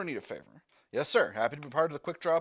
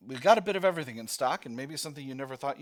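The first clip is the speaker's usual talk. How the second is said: put-on Brooklyn accent; 5 dB louder, faster than usual. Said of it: "doing a Brooklyner instead".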